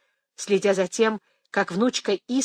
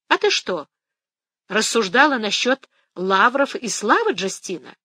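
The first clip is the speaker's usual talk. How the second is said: sharp question; 3 semitones higher, 4 dB louder than usual. Acted. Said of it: "резко спросила бабушка".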